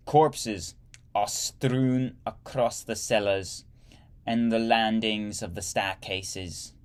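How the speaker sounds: slow, heavy mock German accent; hammed-up German officer accent, dragged out; bad German accent. Reading a German officer's letter in a bad German accent. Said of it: "That was a bad accent".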